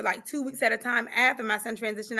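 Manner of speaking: ordinary talk, nothing marked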